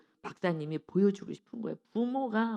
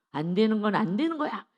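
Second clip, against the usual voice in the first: firm no; 2 semitones higher, 6 dB louder than usual. Shown as a demonstration. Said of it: "오은영 박사님 하는 얘기가".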